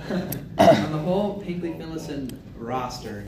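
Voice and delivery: measured, emphatic restatement; slow, deliberate repeat. Real, not acted. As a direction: draw out "whole Hinkley Finlayson roster" slowly. Repeats question after being interrupted.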